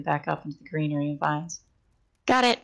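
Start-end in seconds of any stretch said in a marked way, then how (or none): 2.3-2.6 breathless excited cry; panting. Acted. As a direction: gasp it out, short of breath. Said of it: "she panted".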